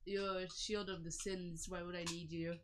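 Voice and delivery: mumbling. Acted. Player's character mumbles at the shield, soft and unimpressed. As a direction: mumble it to yourself, softly. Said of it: "I guess he would mumble".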